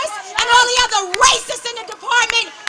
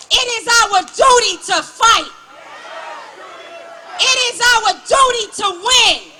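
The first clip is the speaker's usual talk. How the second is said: rally cry. Real, not acted. Rally slogan called out to crowd.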